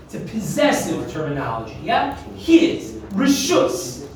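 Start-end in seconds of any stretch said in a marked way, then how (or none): 2.3-4.1 "His" and "Rishus" each set apart and pitched high; emphatic stress. Shown as a demonstration. Teacher singling out the key word for students, emphatic stress. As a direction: punch "His", then "Rishus", as separate key words. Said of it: "I emphasize so far is the word rishus".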